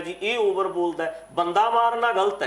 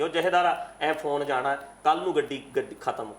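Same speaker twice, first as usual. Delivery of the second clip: mock threatening baba. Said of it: "ਐਂ ਬੋਲਣਗੇ ਬਾਬੇ ਹਰਨਾਮ ਸਿੰਘ ਵਰਗੇ".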